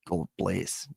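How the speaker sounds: ordinary talk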